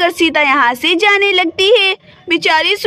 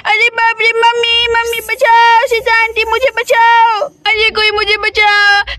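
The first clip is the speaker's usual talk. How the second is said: crying for help. Acted. Girl calls mummy for rescue.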